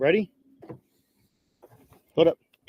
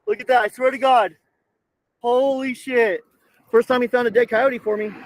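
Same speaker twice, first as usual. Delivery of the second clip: higher, louder, delighted disbelief; excited amazement; 4 semitones higher, 3 dB louder than usual. Real, not acted. Owner thrilled his dog found a dead coyote, excited. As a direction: marvel at the find, pitched up.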